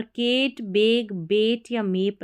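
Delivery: केट बेग बेट मेप with a flat e instead of a; wrong e vowel. Shown as a demonstration. Teacher shows students the wrong way, a slow e sound. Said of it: "नहीं पढ़ना है".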